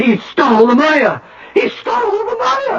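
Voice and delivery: high melodramatic cry; hysterical wailing. Acted. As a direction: wail it theatrically. Designer's hysterical grief.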